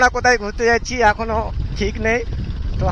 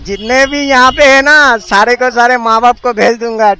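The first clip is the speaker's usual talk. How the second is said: loud boast; 7 dB louder, slower than usual. Real, not acted. Boasting to crowd on road.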